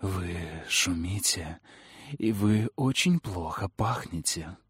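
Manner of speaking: low, slow, soft sphinx voice; deep feminine voice. Acted. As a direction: speak calmly from above, amused. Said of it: "глубоким, низким и всё же очень женственным голосом".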